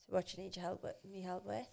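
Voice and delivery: soft playful whisper. Real, not acted. Two friends joking about decorating, whispered. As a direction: whisper it like a secret plan.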